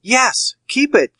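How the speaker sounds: sweating banker forcing out his consent; strained high yes. Acted. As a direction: pitch jumps way up, forced agreement. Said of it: "perspiration started from the roots".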